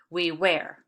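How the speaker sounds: "We wear" as an iamb, light WE then firm WEAR; unstressed "We", stressed "wear". Shown as a demonstration. Teacher giving an example of an iamb, stress falling on "wear". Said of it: "made up of an unstressed and stressed syllable".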